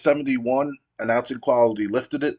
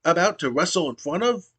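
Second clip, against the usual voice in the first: higher-pitched whiny wrestler promo, rising into pleading; pitched-up whining heel promo; Kanyon's complaint; 6 semitones higher than usual. Retold or imitated. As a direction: beg the crowd for attention, climbing higher. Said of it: "Kanyon goes".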